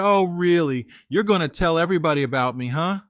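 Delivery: mocking girlfriend laughing at her ex; mocking taunt. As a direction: sneer it back at him. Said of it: "She's laughing at me".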